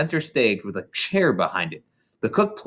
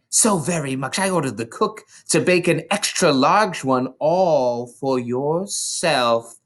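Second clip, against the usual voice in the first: soft, persuasive; 6 semitones higher than usual. Acted. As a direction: persuade him with false gentleness. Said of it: "her voice became soft, persuasive, and even gentle".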